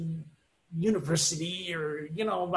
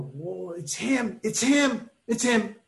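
excited recognition; 3 semitones higher, slower than usual. Retold or imitated. Recognizing famous AA guy.

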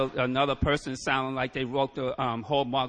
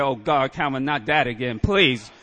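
loud, fed-up groan of a sponsor; exasperated sponsor; 6 dB louder than usual. Retold or imitated. Sponsor hearing Calvin's ideas yet again, loud and exasperated. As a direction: voice the sponsor who's heard it all before.

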